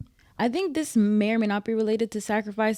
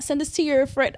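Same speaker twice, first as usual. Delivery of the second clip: a hint of a nagging auntie, a bit higher; 5 semitones higher than usual. Hosts urging viewers to share, lightly auntie-voiced. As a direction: nudge them like a well-meaning aunt. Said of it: "it's always the auntie voice".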